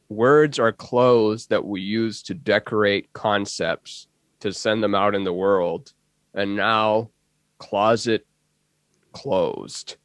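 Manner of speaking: put-on slow, halting elderly sage voice; later-life Ram Dass. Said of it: "a later in life Ram Dass impression".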